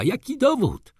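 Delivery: very high demanding cry; baroness exclaiming. A narrator's reading. Baroness demands proof in court, high exclamation. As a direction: demand it, pitched right up. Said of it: "zawołała baronowa".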